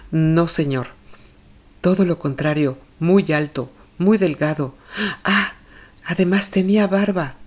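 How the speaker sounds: a hint of a worried mother answering questions; anxious mother. Olga corrects the narrator.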